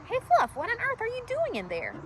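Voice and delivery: high calling voice as Tiny. Acted. Tiny calls out to Fluff stuck in a log, high.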